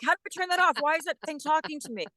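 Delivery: high-pitched mock bafflement; baffled viewer. A TV viewer hearing unexpected narration, baffled. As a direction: play a viewer thrown by an unexpected voice.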